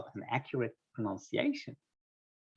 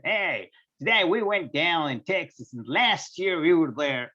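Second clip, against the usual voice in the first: mild Texas accent; 4 semitones higher, 6 dB louder than usual. Shown as a demonstration. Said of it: "Now I'm gonna have a heavy Texas accent".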